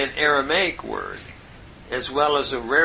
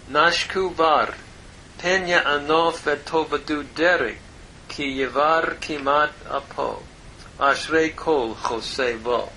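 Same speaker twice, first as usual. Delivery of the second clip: Hebrew scripture reading. Acted. Reads the Hebrew verse aloud.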